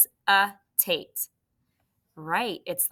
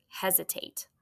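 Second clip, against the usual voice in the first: whispered word for the class; hushed classroom whisper; 8 dB quieter than usual. Shown as a demonstration. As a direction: breathe the word softly, no voice.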